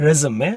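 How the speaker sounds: "resume" as REZ-uh-may; American pronunciation. Shown as a demonstration. Teacher showing the American word, American pronunciation. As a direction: say "resume" with a weak middle vowel.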